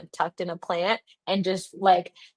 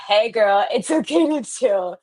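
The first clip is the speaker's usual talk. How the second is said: higher-pitched sassy-friend reassurance; reassuring Spirit; 3 semitones higher, 3 dB louder than usual. Retold or imitated. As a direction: lightly voice Spirit soothing a girlfriend. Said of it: "Spirit is saying".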